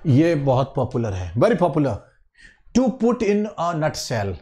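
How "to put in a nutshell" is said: slow, clear teacher reading of "To put in a nutshell", each word laid out; teacher pronouncing "To put in a nutshell" slowly for the class; slow model reading. Shown as a demonstration. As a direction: read "To put in a nutshell" slowly for students to repeat. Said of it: "to put in a nutshell का मतलब होता है".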